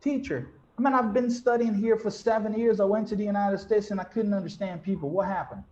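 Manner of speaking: slightly hammed-up puzzled student, starting high; lightly voiced student. Student back from the United States asks teacher, lightly acted bafflement. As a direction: complain to the teacher, pitch easing down. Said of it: "get back to the class and be like".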